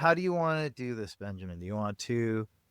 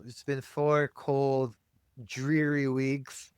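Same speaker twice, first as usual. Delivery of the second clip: noir detective; 3 semitones higher, much slower than usual. Acted. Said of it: "how do we noir that up".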